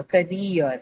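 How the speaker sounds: "career" drawn out on -reer; stress on second syllable. Shown as a demonstration. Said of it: "mark it on the second syllable".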